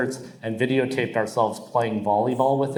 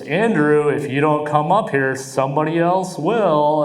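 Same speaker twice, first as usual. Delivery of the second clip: mock announcer; 3 semitones higher, 3 dB louder than usual. Announcer calling Andrew to the stage, mock MC. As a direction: draw it out like a club MC. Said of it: "the announcer goes".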